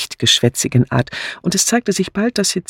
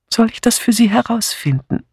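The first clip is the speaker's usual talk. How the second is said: higher-pitched, kindly offer; friendly; 9 semitones higher than usual. A narrator's reading. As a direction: ask it in a friendly, lifted voice. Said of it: "fragte Miss Marple freundlich".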